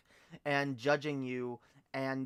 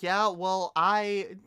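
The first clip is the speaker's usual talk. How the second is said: high, loud fake-Canadian comeback; hammed-up Canadian bickering; bad Canadian accent; 6 semitones higher, 7 dB louder, much slower than usual. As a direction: retort in a put-on Canadian accent. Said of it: "do a good Canadian accent".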